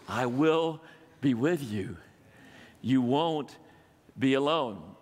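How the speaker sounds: slow, low, gentle promise; reassuring God's voice. Acted. God reassures the fearful listener, slow and tender. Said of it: "the voice we need to hear".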